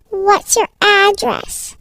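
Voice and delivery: slow question, rising at the end; measured questioning. Acted. Stranger wants the child's address, slow and deliberate. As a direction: ask it slowly and deliberately. Kidnapper asks again in the car.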